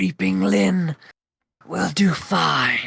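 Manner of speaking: dry, paper-thin, high, hollow rasp, drawn out. Voicing a character who answers the invited visitors: raspy Creeping Lynn voice. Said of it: "It is raspy".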